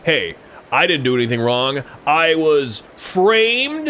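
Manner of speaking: I was framed drawn out slowly, rising; mock innocent protest. Joking about bike puns, a mock innocent plea. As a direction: play the wrongly accused, dragging the last words. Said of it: "or like".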